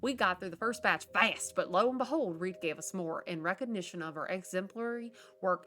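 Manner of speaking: letter read in character. Acted. Gamer reading a cousin's letter to viewers, chirpy and perky. Reads a found letter aloud.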